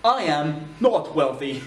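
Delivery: phrases d'exemple détachées, très lentes. Shown as a demonstration. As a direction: articule chaque mot pour l'élève. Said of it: "Donc wealthy, c'est un T H". (la prof dicte lentement ses exemples)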